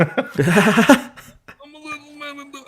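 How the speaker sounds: high, slow squeaky little voice with a laugh; little man in a box. Pretend. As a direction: play a tiny man trapped in a box. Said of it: "Sounds like the man in the box".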